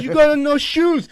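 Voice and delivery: put-on high, slow nagging old lady; mock old neighbor; old lady scolding. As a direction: mimic her pointing out the bare feet. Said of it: "She goes".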